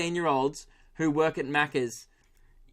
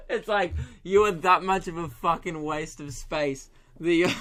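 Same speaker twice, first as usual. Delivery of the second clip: laughing. Real, not acted. Still laughing at his joke.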